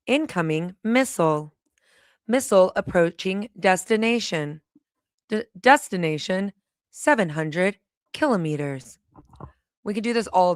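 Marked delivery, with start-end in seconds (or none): 0.1-9.0 even navigation-app read of a joke alert; mock GPS voice. Streamer joking in her GPS voice about a missile, lightly robotic. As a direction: announce it like a sat-nav prompt, lightly done. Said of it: "I sound like a G P S".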